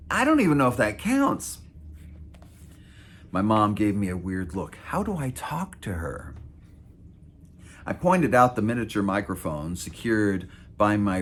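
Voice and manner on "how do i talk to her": whispered question; hushed, unvoiced words. A narrator's reading. Mom asking quietly.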